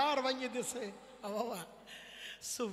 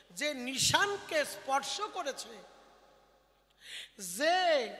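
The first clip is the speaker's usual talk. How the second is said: scolding guru; 3 semitones higher than usual. Retold or imitated. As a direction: hammer each question at the disciples like a stern teacher.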